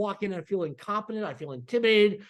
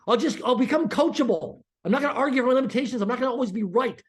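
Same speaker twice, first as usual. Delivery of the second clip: laughing surrender; 4 semitones higher, 3 dB louder than usual. Retold or imitated. Giving in under group pressure.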